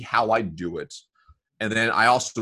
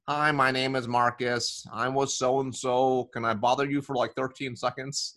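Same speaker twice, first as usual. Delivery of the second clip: monotone; 2 semitones higher, 3 dB quieter than usual. Acted. Novice cold caller reading a script to a prospect, monotone. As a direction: drone through the script on one note, fading softer. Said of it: "probably more monotone than they think they are".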